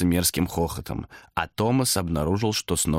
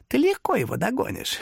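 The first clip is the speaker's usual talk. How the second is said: hoarse whisper. Acted. Demon whispers to Thomas about the weak peddler. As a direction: rasp it close in his ear.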